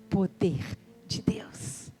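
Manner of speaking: slow whispered awe. Real, not acted. Preacher whispers the power of God to the church. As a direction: breathe it out in hushed reverence.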